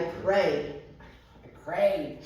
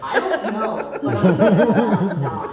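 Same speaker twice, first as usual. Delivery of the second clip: louder, laughing, the last words very slow; louder, laughing admission, dragged out at the end; laughing reply; 10 dB louder, much slower than usual. Retold or imitated. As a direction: laugh through the answer, half bewildered. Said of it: "And I said".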